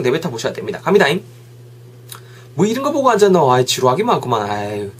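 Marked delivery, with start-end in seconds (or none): 2.5-4.9 grumbling. Acted. Acted grumbling about boring show.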